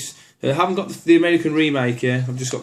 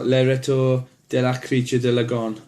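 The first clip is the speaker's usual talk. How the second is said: clumsy English speaker's French accent on the title; bad French accent. Shown as a demonstration. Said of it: "horrendously bad accent".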